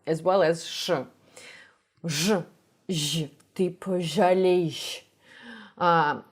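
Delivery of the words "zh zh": hard, buzzing "Zh" held on its own; sharp Russian zh. Shown as a demonstration. Teacher showing learners the Russian sound, hard zh. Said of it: "zh in Russian is sharper".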